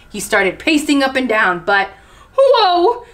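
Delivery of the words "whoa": high, loud exclamation; startled slip. A narrator's reading. Narrator voicing chameleon slipping, high startled cry. Chameleon slips on banana skin.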